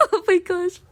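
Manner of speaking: can't hold it together; embarrassed giggling gasp; flustered laughing. Real, not acted. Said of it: "I can't keep my composure".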